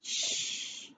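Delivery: soft unvoiced shush; troll hushing its friends. A narrator's reading. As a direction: hush the others. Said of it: "said a third medium-sized voice".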